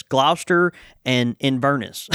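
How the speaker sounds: "Gloucester" as GLOUSE-ter, "Inverness" as in-VER-niss; Southern local pronunciation. Shown as a demonstration. Showing how locals say it, "Gloucester" as GLOUSE-ter, "Inverness" with weak "niss". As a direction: rhyme the first part of "Gloucester" with house, weaken the end of "Inverness". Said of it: "we don't say 'em like that".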